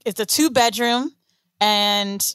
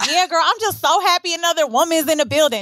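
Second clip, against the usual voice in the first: higher-pitched, lightly exaggerated neighbor impression; put-on slangy neighbor; 4 semitones higher than usual. Neighbor greets another woman in the building, put-on slangy imitation. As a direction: imitate her over-familiar girlfriend talk. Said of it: "but she was sounding like this".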